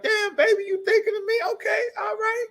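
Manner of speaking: high, delighted cry of a flattered man; overjoyed man. Retold or imitated. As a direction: gush like a man who can't believe his luck. Man touched by a kind woman.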